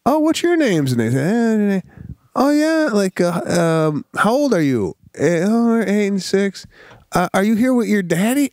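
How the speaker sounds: lightly voiced friendly wife chatting to kids; friendly, pleasant imitation. Wife chatting to two little girls, imitated friendly lilt. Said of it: "She sounds friendly".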